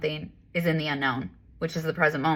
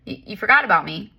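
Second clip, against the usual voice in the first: higher, quicker pleading voice; lightly voiced body pleading, higher and quick; body's gentle plea; 5 semitones higher than usual. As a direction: play the shoulder asking to be noticed. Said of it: "your body's trying to say".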